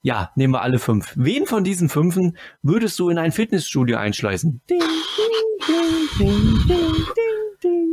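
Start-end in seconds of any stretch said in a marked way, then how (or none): 4.7-7.9 high sung dings like a game show bell; mock bell ding. Host mimicking a quiz bell after asking the question. Quiz buzzer sound imitated.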